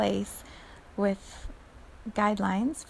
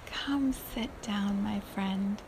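slow, soft, welcoming invitation; softer welcome to the student; 5 dB quieter, slower than usual. Retold or imitated. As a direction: soften and welcome a dear guest. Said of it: "say it with such a welcome".

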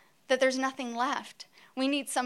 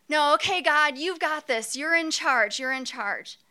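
Moses impersonation; 3 semitones higher, 4 dB louder than usual. Pretend. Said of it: "so here I am as Moses".

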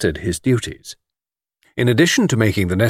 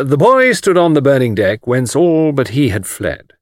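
measured, slightly raised recitation; reciting; 4 semitones higher, 4 dB louder than usual. Acted. Anthony reciting for Miss Taylor, declaiming verse. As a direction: recite it carefully, slowing on the second line. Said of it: "I might recite".

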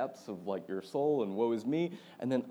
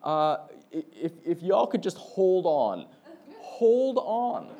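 loud, laughing mock pilot announcement, higher; captain on the loudspeaker; 7 semitones higher, 9 dB louder, slower than usual. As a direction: play the shaken captain begging everyone to hold on, half laughing. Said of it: "over the loudspeaker".

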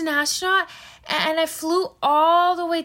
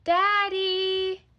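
from another room. Acted. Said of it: "a small voice from the other room".

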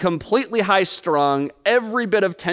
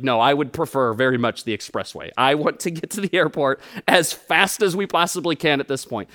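lower, overly proper mock request; asking the friend for the expressway, mock proper; mock formal politeness; 5 semitones lower than usual. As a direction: play it stiffly polite through clenched patience. Mock-polite refusal of scenic route.

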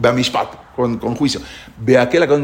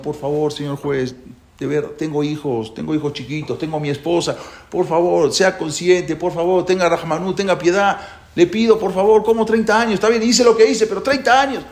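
pleading convict. Acted. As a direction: plead with the judge, building to desperation. Convict begs judge in parable. (el preso suplica al juez, cada vez más alto y desesperado)

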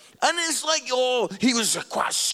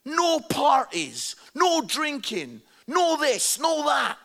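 loud, slow, forbidding voice; mock stern God; 4 semitones higher, 4 dB louder, slower than usual. Mocking the idea of an angry God, loud and forbidding. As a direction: lay down the rules like a killjoy God. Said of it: "That God is just like".

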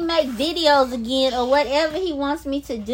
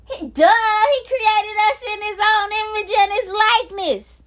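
overjoyed; 5 semitones higher than usual. Real, not acted. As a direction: voice cracking with joyful emotion. Ecstatic about being made in God's image.

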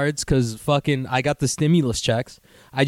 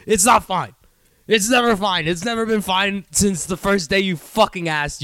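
higher-pitched mock anger; acted outburst; 4 semitones higher than usual. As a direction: play a fed-up partner blowing up. Acted angry partner snapping back.

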